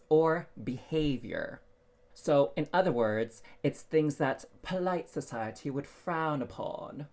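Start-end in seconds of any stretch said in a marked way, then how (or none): 3.6-7.1 light mock British accent, same pitch and level; a playful touch of posh British English. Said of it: "I had to say that in a British accent".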